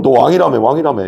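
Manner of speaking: half-acted needling jeer; mild mocking. Soldiers tapping Jesus's head with a reed, mildly mocking.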